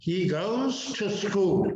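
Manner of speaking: slow "He goes to school" with "to" reduced; weak "to". Shown as a demonstration. Teacher models the right sound of to, weak "to". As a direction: say "He goes to school", no full "too" on "to". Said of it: "to नहीं आएगा शब्द यहाँ पे".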